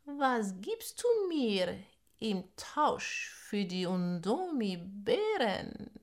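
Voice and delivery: slow, drawn-out snake voice; slow hypnotic serpent hiss. Acted. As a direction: lure her in like a serpent. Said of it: "zischelte Schlange".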